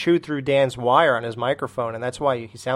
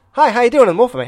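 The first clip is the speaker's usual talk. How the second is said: Wolfman voice; 8 semitones higher, 8 dB louder, faster than usual. Retold or imitated. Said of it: "I'd watch him go".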